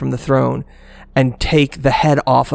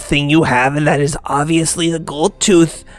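indignant goblin deity making demands; imperious, insistent creature voice; booming goblin god; 2 semitones higher than usual. Acted. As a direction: declaim it as a petulant monster god. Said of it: "in a very deep and booming voice".

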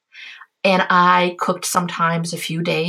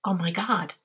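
hushed awe; 9 dB quieter than usual. Retold or imitated. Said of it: "It was like".

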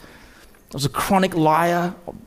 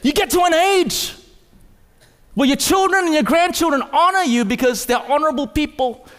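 full-force preaching; 6 semitones higher than usual. Acted.

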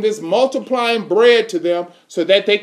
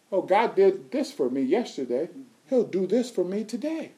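grateful believer; 8 dB quieter than usual. Pretend. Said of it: "you can say".

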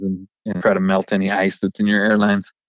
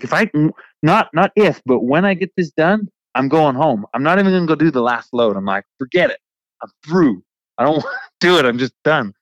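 higher, exasperated, at the end of his rope; mock-exasperated self-talk, pitched up; fed up; 5 semitones higher than usual. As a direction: throw up your hands and quit. Fed up, convincing himself to quit.

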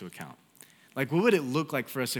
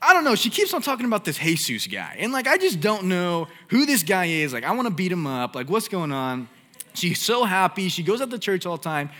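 hammed-up jealous husband, high and loud; preacher acting out a jealous husband, high and loud with a laugh; 7 semitones higher, 8 dB louder than usual. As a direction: play the husband ready to beat someone up, pitched high, loud and rising.

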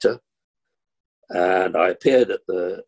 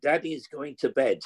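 higher, slow, lordly send-off; a playful imitation of the director, higher and slower; mock director's order; 7 semitones higher, slower than usual. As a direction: hand the play over grandly, then bow out to bed. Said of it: "And he said".

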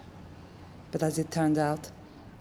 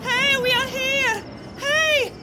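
desperate shouting. Acted. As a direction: yell to be seen from afar. Mother shouting at passing plane.

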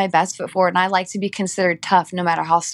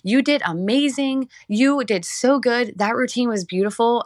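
gushing praise; 4 semitones higher than usual. Retold or imitated. People gushing praise after routine.

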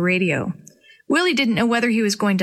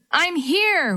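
higher call into the trees; calling back; 8 semitones higher than usual. A narrator's reading. Boy answers the searching rescuers, calling. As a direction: call out so they find you. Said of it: "Willie called back".

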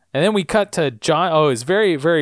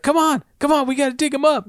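urgent plea; 11 semitones higher, faster than usual. Retold or imitated. Sawyer urging the others to dig, high and urgent. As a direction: push him to dig right now. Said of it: "And he's like".

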